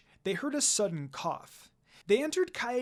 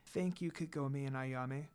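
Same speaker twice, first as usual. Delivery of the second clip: smiling; 5 semitones lower, 8 dB quieter than usual. Acted. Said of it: "Rin said, smiling".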